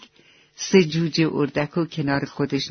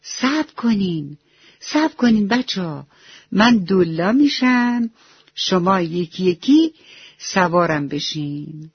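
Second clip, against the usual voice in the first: put-on raised, higher voice calling the kids to wait; loud call; 3 semitones higher than usual. Magmag calls out to stop the crying ducklings, loudly. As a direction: call out over the crying to get their attention. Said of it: "با صدای بلند گفت".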